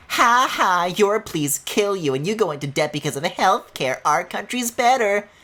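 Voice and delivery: hammed-up smug troll taunt; mock smug arguer. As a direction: sneer like a smug internet troll. Mocking an internet arguer.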